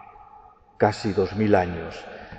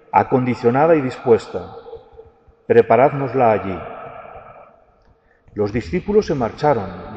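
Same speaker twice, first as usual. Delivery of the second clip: liturgical reading. Acted. Proclaims the Gospel at Mass.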